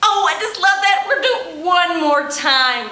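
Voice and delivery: fast, laughing gush; delighted with the song; laughing with joy after the song. Real, not acted.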